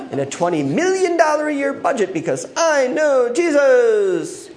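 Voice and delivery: smug, sing-song believer bragging; hammed-up boast of blessings; mock prosperity boast. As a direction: parody a greedy believer. Mocking prosperity-gospel believer.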